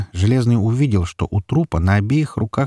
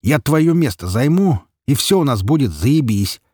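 gloating defiance; 6 semitones higher than usual. A narrator's reading. Petka defying his father, gloating. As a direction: stretch the words out smugly.

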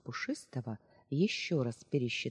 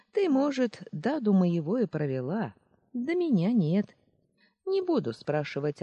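a hint of a knowing smirk; sly chuckling old woman; 4 semitones higher than usual. Old aunt Marsha sees through the girl's disguise, slyly amused. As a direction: tease her for the disguise. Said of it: "усмехнулась бабулька".

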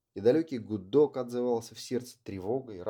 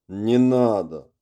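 firm refusal; 10 dB louder, much slower than usual. Acted. Fist slammed on table.

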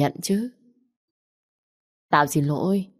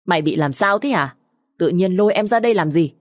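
a louder scolding mother; 2 semitones higher, 3 dB louder than usual. Acted. Mother scolds her daughter for dragging her sister out, angry scolding. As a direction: tell off her daughter sharply. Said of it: "Bà Dung quay sang mắng chị Châu".

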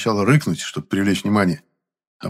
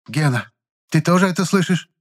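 put-on high worried old woman's voice; old landlady's voice; 7 semitones higher than usual. A narrator's reading. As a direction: ask like a fretful old landlady. (взволнованная старушка, голос выше)

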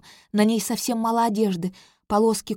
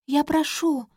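high begging shout; pleading cry; 7 semitones higher than usual. Acted. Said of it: "снова выкрикивает принцесса".

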